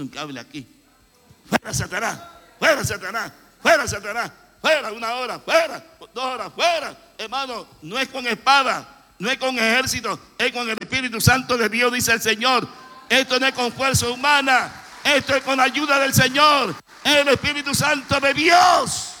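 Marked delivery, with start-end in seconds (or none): 1.5-7.0 mock rebuke. Mocking a believer rebuking the devil. 7.2-19.1 loud, high shouted sermon; fiery preaching. Acted. Preacher telling the brethren it is by the Spirit, shouted high.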